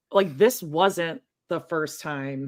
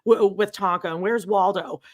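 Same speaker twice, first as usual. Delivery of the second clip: ranting imitation; 2 semitones higher than usual. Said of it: "she starts going off".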